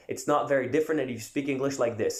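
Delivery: smooth native American English accent. Shown as a demonstration. Coach contrasts his French-accented English with a native American accent. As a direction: slip into a natural American accent. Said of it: "avec un accent, euh, américain, euh, natif".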